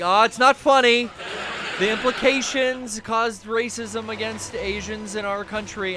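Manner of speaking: retold scolding, stretched for effect; mock lecturing. Retelling being lectured over a joke, mock lecturing. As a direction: imitate a humorless lecture. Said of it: "like, lectured on".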